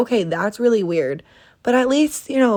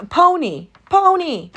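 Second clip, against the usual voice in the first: incredulous; 10 semitones higher, 5 dB louder than usual. Real, not acted. Repeating weird name in disbelief.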